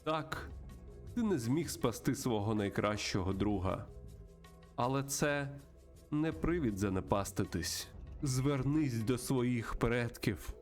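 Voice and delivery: slow, measured mystical mentor; solemn spirit guide. Acted. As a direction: intone slowly, with long pauses between phrases. Voices spirit guide in game. (повільний урочистий голос наставника)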